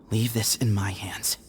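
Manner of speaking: quiet whispered reassurance. Acted. Grandson quietly reassuring his coughing grandfather, whispered. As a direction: whisper it close, steady and sure.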